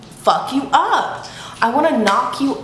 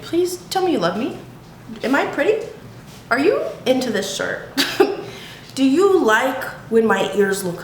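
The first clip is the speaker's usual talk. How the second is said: mock-needy questions, pitched up; needy pleading; 3 semitones higher than usual. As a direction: beg lightly for approval. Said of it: "I'm needy".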